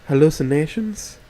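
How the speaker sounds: a touch of worried surprise; mildly alarmed question; shocked concern. Acted. Rosa hears about his hallucinations, mildly shocked. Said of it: "with a degree of shock and concern".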